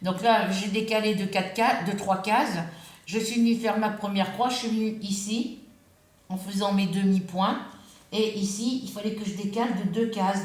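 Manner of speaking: talking with a loose denture. Real, not acted. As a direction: speak around a slipping denture. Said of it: "ah, ma prothèse me fait mal, elle bouge". (avec un dentier qui bouge)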